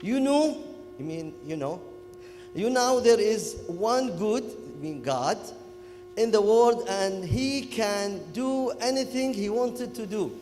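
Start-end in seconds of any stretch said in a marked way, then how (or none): 0.0-0.6 Kuwaiti English. Retold or imitated. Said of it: "talking, uh, Kuwaiti English". 2.5-4.4 Kuwaiti English. Retold or imitated. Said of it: "talking, uh, Kuwaiti English". 6.2-10.3 Kuwaiti English. Retold or imitated. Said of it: "talking, uh, Kuwaiti English".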